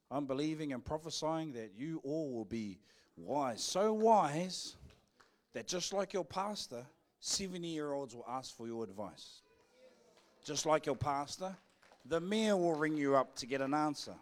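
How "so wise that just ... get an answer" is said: louder, bold prophetic declaration. Acted. Pastor prophesying over the congregation, bold and louder. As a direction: proclaim it boldly to break through. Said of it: "I'm saying it boldly like that".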